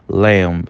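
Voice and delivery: "Lamb" ending in a small, weak B; B final fraquinho. Shown as a demonstration. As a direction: release a faint B at the end of "Lamb". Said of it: "termina com um B fraquinho no final". ("Lamb" terminando num B fraquinho)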